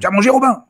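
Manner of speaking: «Tu as mangé Robin?» as a question, pitch climbing high and loud at the end; question intonation. Shown as a demonstration. Linguist demonstrating question intonation to the host, rising tune. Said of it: "c'est une interrogation".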